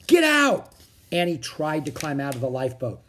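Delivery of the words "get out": high, loud shout of a name; alarmed yell. A narrator's reading. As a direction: yell to a friend in danger. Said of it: "he yelled".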